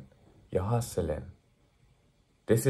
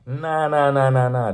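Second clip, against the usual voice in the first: loud emphatic refusal; 5 semitones higher, 6 dB louder than usual. Real, not acted.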